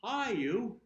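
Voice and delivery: cheery mirror greeting. Retold or imitated. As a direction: greet your reflection with delight. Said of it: "I go to the mirror and I go".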